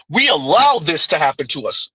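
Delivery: light lean on "allowed" in a mocking quote; stress on allowed. Mocking a claim about slavery, a slight stress on "allowed". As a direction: press the word "allowed" a little harder. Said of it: "Emphasis on the word allowed".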